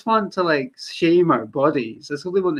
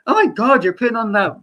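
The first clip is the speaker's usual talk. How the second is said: higher, louder imitation of shocked accusers; mock shock; 4 semitones higher, 4 dB louder than usual. Critics accusing a Scot of faking the accent, mock shocked. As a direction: exclaim it in exaggerated disbelief. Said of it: "They're, like, really shocked".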